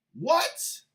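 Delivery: high, rising disbelief; stunned outrage; shocked what. Real, not acted. Reaction to endorsement.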